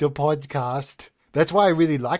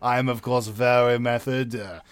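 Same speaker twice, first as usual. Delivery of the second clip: breathy vintage purr; 2 semitones lower than usual. Acted. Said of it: "when the voice starts happening".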